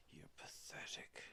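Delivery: unvoiced whisper of contempt; creepy whispered taunt; whispered insult. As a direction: breathe "pathetic" like a villain. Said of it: "whispered insult".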